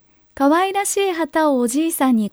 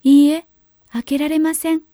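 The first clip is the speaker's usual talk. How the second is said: put-on firm little girl refusal; 4 semitones higher, 5 dB louder than usual. A narrator's reading. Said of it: "と、売り子姫子は言いました".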